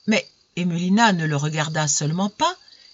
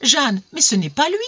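high, loud distressed plea; tearful pleading; 9 semitones higher, 5 dB louder than usual. A narrator's reading. Emelina to Jeanne, horrified by the suitor, tearful pleading. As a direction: plead as if crying. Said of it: "dit-elle en pleurant".

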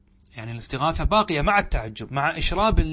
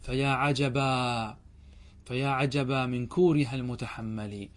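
poem recitation; 3 semitones lower, 4 dB quieter than usual. Acted. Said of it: "ومنه قول امرؤ القيس".

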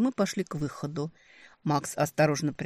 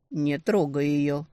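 slow warning; slower than usual. Acted. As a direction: warn him, slowly and evenly. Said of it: "предупредил Макс".

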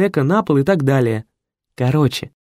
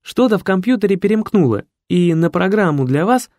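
high, quick secretary voice; anxious assistant explaining; flustered secretary; 6 semitones higher, 3 dB louder than usual. A narrator's reading. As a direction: explain it in a higher, hurried voice. Secretary hurriedly explains the glitch.

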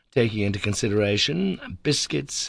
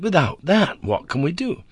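cry; 9 semitones higher, 4 dB louder than usual. A narrator's reading. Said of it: "I cried".

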